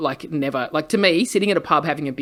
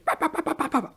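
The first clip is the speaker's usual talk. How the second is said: mock ranting babble; 10 semitones higher, 6 dB quieter, much faster than usual. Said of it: "tear someone's character to pieces".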